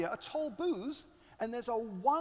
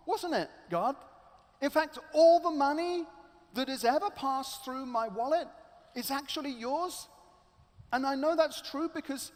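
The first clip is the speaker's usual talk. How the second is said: louder, fervent prayer; praying out loud; 4 dB louder than usual. Acted. Man in his parked car praying aloud to God, fervent. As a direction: pour out thanks to God. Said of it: "he says out loud in his car".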